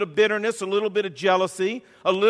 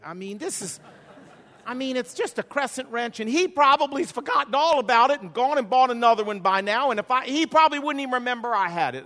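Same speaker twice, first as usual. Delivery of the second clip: laughing excuses; 5 semitones higher than usual. Retold or imitated. Arguing excuses with God.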